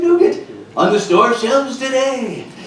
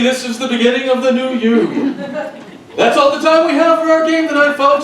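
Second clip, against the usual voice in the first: game show host sign-off; 4 semitones higher, faster than usual. Acted.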